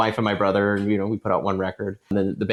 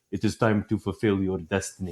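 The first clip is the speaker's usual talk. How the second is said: solemn dad voice; 2 semitones lower, 5 dB quieter than usual. Retold or imitated. Dad solemnly handing over bass.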